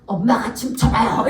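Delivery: put-on child's dare bursting into laughter; slow mock call-out with giggles; imitated teasing dare. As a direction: throw the dare back, laughing. Child teases mother back, retold laughing.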